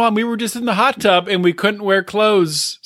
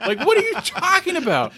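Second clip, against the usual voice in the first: mock disbelief; 10 semitones higher than usual. Repeating the mock question.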